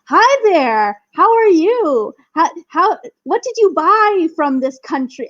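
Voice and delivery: mock the overly friendly airport officer; gregarious police officer. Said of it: "And just so gregarious".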